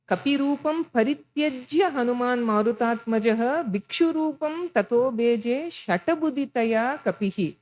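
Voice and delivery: lightly chanted shloka, even and measured; a touch of temple chant; Sanskrit verse recitation. Acted.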